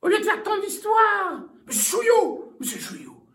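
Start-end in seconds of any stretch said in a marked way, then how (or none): 1.7-2.5 calling out. Acted. Calling the guest aloud. 2.6-3.2 whispering. Acted. Calling him, then whispering.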